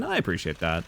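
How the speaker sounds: ordinary delivery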